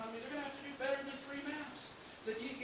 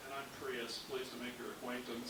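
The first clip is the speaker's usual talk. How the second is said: lower, prim and soft; prim little car; 10 semitones lower, 7 dB quieter than usual. Pretend. The Prius greets the other cars, lower and prim. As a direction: sound proper and polite, a bit stiff. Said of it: "The other one says".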